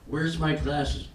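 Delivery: slow puzzled search; confused. Retold or imitated. Man at bedtime forgetting his surgery, slow and puzzled. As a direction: grope for them slowly, half asleep. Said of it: "I lay down in the bed and I go".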